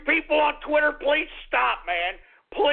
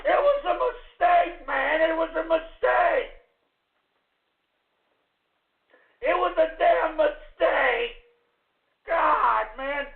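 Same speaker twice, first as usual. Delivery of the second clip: hammed-up wailing shout; mock sobbing; 2 semitones higher than usual. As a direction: wail it like a fake crybaby. Host wails about his mistake.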